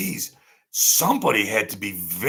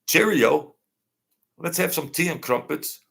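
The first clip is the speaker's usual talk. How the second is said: lightly put-on English accent, higher on the greeting; mock English accent; 4 semitones higher than usual. Streamer mimics the band's English accents, mock English accent. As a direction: imitate a polite English accent.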